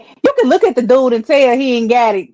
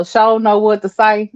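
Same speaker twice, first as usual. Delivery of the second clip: Southern saying. Shown as a demonstration. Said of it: "we still say stuff like".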